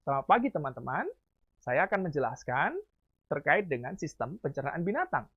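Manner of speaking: phrases swooping up at their ends, with pauses between; rising and falling intonation. Shown as a demonstration. Teacher demonstrates varied intonation to students, rising and falling intonation. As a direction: demonstrate a melodic up-and-down presenter's greeting. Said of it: "Maka harus naik turun".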